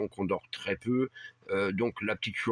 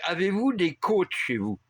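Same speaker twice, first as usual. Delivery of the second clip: put-on Spanish accent; 7 semitones higher, 3 dB louder than usual. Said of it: "avec un fort accent espagnol".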